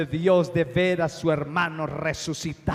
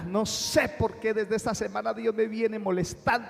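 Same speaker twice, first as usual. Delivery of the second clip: higher and urgent, a lightly voiced troubled woman; voicing the caller; 4 semitones higher than usual. Pastor retells a woman phoning him, lightly voiced and urgent. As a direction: plead it like a restless caller.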